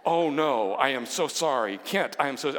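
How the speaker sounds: hurried, embarrassed sorry; flustered apology. Retold or imitated. Father realizes his slip at dinner, flustered apology. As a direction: catch yourself and backpedal. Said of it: "now he's all nervous".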